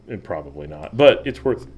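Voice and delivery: talking through hiccups; hiccuping between words. Real, not acted. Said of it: "Sorry, I've got the hiccups".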